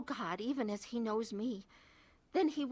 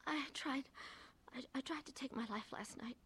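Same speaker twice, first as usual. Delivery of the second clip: hushed confession; 4 semitones higher, 9 dB quieter than usual. Acted. Confessing suicide attempt to husband.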